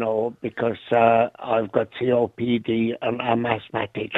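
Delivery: thin squeaky voice from COPD. Real, not acted. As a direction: talk with a squeaky, strained voice. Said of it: "As you can probably tell by the squeaky voice".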